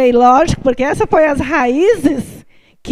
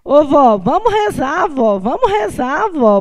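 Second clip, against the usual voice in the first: put-on high, pleading child's voice; lightly voiced small girl asking grandma; little girl; 4 semitones higher, slower than usual. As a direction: beg grandma sweetly to pray. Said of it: "a minha sobrinha fica assim".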